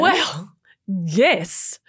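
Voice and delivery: a sheepish whispered yes. Real, not acted. Mum admitting to friend, whispered. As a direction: concede it under your breath.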